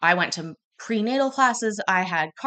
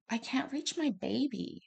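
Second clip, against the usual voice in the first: weeping; 7 semitones higher, 9 dB quieter than usual. Retold or imitated. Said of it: "I hear her weeping, crying".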